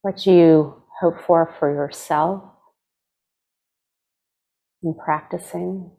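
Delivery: unhurried meditation guide, long pauses between phrases; guided meditation. Acted. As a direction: gently lead them into stillness, leaving space to breathe.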